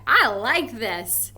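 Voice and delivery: like chocolate cake just arrived; excited. Pretend. Getting chocolate cake, saying it excitedly. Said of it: "I know that I would say".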